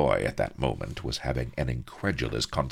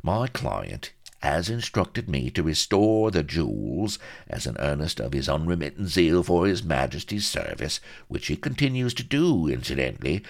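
higher, louder salesman's patter; smooth-talking fixer; 5 semitones higher, 5 dB louder than usual. Acted. Vladimir pitching his client to Pepys, smooth and grand. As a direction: talk up the client like a slick fixer.

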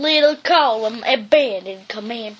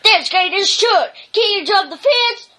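yelling; 6 semitones higher than usual. Acted. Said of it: "I yelled over the wind and rain".

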